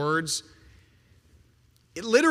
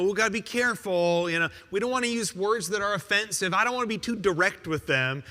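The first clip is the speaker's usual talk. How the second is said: mock hedging; faster than usual. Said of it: "he doesn't kinda, like, dance around it".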